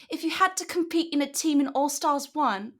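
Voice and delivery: bad British accent. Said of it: "What was that?".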